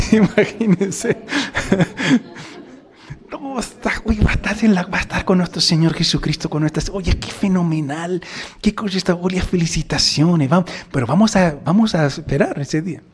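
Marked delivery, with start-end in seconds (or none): 3.3-13.0 gushing congratulations. Acted. Neighbour congratulating the dying.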